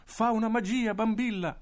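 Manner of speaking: grido acuto e forte di bambini; gridando. Acted. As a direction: supplicano Bambilla a gran voce. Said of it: "gridavano i bambini". (i bambini gridano a Bambilla)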